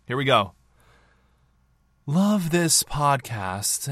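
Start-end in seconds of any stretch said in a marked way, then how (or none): 2.1-3.9 very slow, breathy and lofty; Cloud Retainer voice. Pretend. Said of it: "read this in Cloud Retainer's voice".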